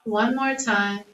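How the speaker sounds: calm breathing cues with long pauses; measured, unhurried yoga-teacher guidance; guided meditation. Acted. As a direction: lead a body scan, leaving room for each breath.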